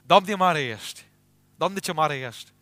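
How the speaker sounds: loud, high joyful exclaiming; thrilled believer shouting praise; excited praise. Pretend. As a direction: burst out praising God's wonders. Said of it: "Ce ați fi spus?".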